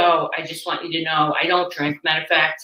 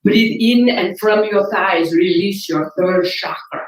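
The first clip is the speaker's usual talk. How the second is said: slow, drawn-out soothing guide; mock meditation voice; 2 semitones higher, slower than usual. Parodying the meditation tape to the audience, slow mock calm. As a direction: ham up the calm instructor slowly. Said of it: "It's like".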